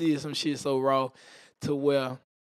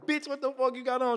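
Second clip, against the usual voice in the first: angry retold yell; 8 semitones higher than usual. Grabbing her, angry confrontation.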